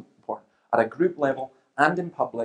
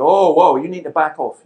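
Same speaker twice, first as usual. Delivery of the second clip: loud opening, easing slightly, higher pitch; retold alarmed protest; 3 semitones higher, 11 dB louder than usual. Debater stopping an angry heckler, mock alarmed protest. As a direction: act out halting someone mid-charge.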